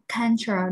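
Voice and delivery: culture with the first syllable stressed; culture, strong first beat, weak ending. Shown as a demonstration. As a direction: lean on the "cul" in culture. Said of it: "trọng âm rơi vào âm thứ nhất".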